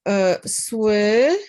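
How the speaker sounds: "słychać" stretched slowly, stress on first syllable; Polish słychać. Shown as a demonstration. Teacher showing where stress falls in "słychać", slow. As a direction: draw out "słychać", hit "sły". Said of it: "the emphasis on the first syllable".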